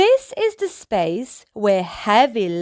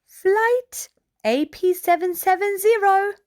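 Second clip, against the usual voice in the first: announcer voice; 8 semitones higher than usual. Acted. Airport announcement voice.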